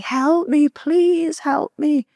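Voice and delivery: high, drawn-out cry for help; imitated tearful plea. Crying woman begs a passer-by on a back street, high imitated plea. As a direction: imitate a distressed woman pleading, stretching the words. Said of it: "crying her eyes out".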